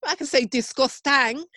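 high-pitched mock-Scottish; hammed-up Scottish accent; Scottish accent demo. Shown as a demonstration. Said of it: "That's Scottish, isn't it?".

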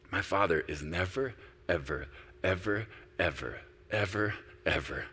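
softly fading preaching; hushed. Acted. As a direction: drop to an intimate hush. Quiet close after loud climax.

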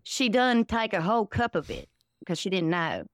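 put-on folksy Southern accent, rambling along; Southern parody character. Comedian as her Southern MAGA character explaining herself, Southern parody voice.

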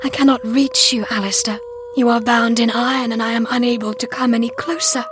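high, distressed heroine voice; anguished helplessness. A narrator's reading. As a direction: plead helplessly with a bound lover. Heroine helpless before bound lover.

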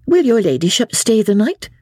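put-on a polite young serving girl asking; young maid. A narrator's reading. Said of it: "asked pretty Miss Sally".

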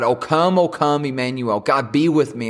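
heartfelt appeal to Emmanuel; cry to God. Acted. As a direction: call upward, imploring but not shouted. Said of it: "It's our cry to God".

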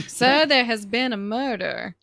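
a hint of genteel Southern; Southern accent. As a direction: quote it with mock Southern gravity. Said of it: "That is the best Office".

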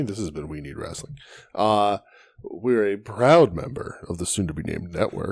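big booming announcer voice; fighting game announcer. Acted. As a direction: hype it like an arena announcer. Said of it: "It's a fun announcer voice".

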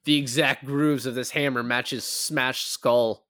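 slow, mock-serious expert voice; lightly voiced CSI investigator, slow and solemn; mock forensic expert. Friend mocks a CSI expert, slow and solemn.

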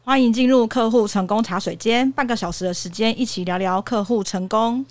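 muffled behind a mask; through a face mask. Real, not acted. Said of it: "听她的声音比较闷一点".

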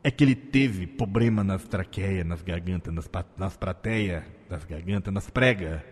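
low, torn Lula voice; Lula impression. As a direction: rasp it out like old Lula. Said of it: "a dificuldade de fazer a imitação do Lula".

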